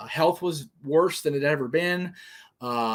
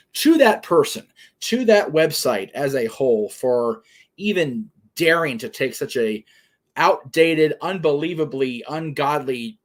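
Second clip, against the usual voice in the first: indignant scolding; 5 dB louder than usual. Real, not acted. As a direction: tell them off with real outrage. Condemning website's prejudiced stance.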